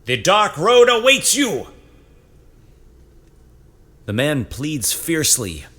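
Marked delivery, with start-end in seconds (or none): 0.1-1.7 high, loud solemn sentencing; raised commanding voice. A narrator's reading. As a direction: pronounce the verdict, loud and high. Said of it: "Zephanon raises his voice".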